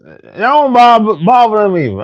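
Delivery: ordinary talk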